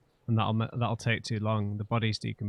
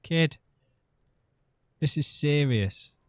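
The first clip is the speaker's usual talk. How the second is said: sincere plea. Shown as a demonstration. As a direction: lean in and mean every word. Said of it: "Do not confuse sincerity with weakness. Say it".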